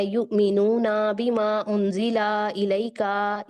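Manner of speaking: युमिनूना बीमा उंजिला इलैका with each last vowel drawn out; slow recited युमिनूना बीमा उंजिला इलैका, long final vowels; lengthened endings. Shown as a demonstration. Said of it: "ये आप हरकत लंबी करें".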